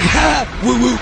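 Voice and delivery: high whoops of triumph; whooping. Retold or imitated. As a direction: whoop like a show-off. Imitating friend whooping.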